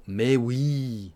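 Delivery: "oui" stretched and leaned on; stress on oui. Shown as a demonstration. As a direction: lean on the i of "oui". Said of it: "on appuie sur le i comme ça". (appuyer sur le i de "oui")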